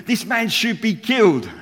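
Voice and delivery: high, loud, slow mock outrage; outraged king. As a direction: play the furious king's verdict, hammed up. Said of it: "He says".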